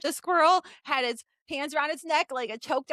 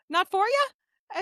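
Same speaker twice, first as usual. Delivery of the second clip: friendly question; 3 semitones higher, much slower than usual. Retold or imitated. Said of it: "What I heard was".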